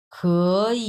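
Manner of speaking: "খ" and "ই" apart, each in third tone; laboured "খ", pause, then "ই"; two full third tones. Shown as a demonstration. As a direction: show how tedious separate "খ, ই" sounds. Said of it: "একটা কি একটা বিরক্তিকর না".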